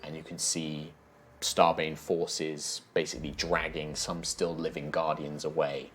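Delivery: measured game master narration, often hushed; grave storytelling; grim scene setting. Acted. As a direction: unfold the aftermath with heavy pauses.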